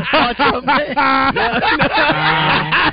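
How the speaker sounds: Macho Man voice. Retold or imitated. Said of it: "same voice for Marlon Brando".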